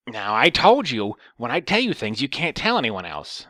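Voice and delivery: mildly scolding imitation; mock telling-off; lecturing. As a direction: lecture like a reproachful old lady. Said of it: "she starts lecturing me".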